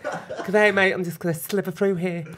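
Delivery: lightly voiced camp Aussie snake; a playful hint of a camp Australian snake. Doing a snake impression for her co-host, lightly camp Aussie. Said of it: "I've got an impression of a snake".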